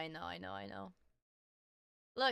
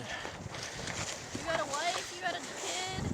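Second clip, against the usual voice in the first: incredulous drawl; 6 semitones higher, much slower than usual. Real, not acted. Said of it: "I never did".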